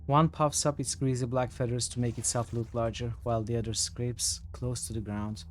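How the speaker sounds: measured storyteller reading aloud; game text narration. A narrator's reading. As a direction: read it out evenly, each phrase falling at the end.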